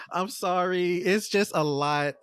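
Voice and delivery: tipsy, giggling through it. Real, not acted. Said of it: "I'm a little tipsy now".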